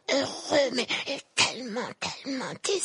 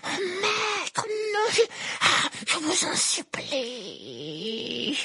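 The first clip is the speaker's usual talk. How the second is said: very high, crying servant begging; terrified sobbing plea; desperate pleading; much slower than usual. Acted. Servant begs his master.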